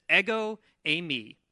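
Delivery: "Ego eimi" said like Eggo, then Amy stressed on its second syllable; pronunciation demo. Shown as a demonstration. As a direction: teach "Ego eimi" as EGG-oh ay-MEE. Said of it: "if you accent the second syllable".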